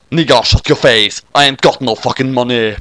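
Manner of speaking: a hint of a tough street accent; girl waking in a new street accent. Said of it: "new accent".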